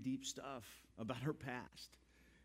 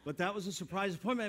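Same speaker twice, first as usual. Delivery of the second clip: louder, higher, driving the point home; emphatic; 7 semitones higher, 7 dB louder than usual. Real, not acted. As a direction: punch the whole line out to the room. Pastor's punchline on the story.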